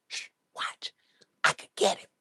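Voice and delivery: mock plotting whisper. Old reporter whispering to himself, scheming whisper. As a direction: hiss it like a sneaky schemer.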